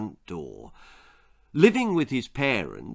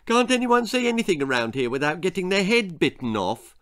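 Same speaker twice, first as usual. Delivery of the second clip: put-on higher, aggrieved boyish complaint; sulky boy; 6 semitones higher than usual. A narrator's reading. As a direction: grumble with a touch of sulk. Jack carries on sulking.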